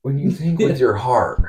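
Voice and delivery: a light imitation of a relaxed movie line; Owen Wilson quote. Co-host repeats the Wedding Crashers line as Owen Wilson. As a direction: lightly voice the actor. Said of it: "Wedding Crashers?".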